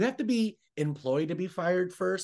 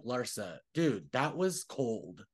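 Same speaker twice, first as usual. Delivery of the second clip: softer, slow, flat rebuke; scolding Larsa; 3 semitones lower, 4 dB quieter, slower than usual. Pretend. Calling out Larsa for her coldness, soft slow rebuke. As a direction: lay it down slowly, disappointed. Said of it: "we have to be like".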